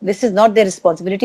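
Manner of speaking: slow, deliberate, firm; slow firm rebuke. Retold or imitated. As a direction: lay down the rule slowly. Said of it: "मेरे मुंह से भी इतना निकला". (धीमी, सख़्त डाँट)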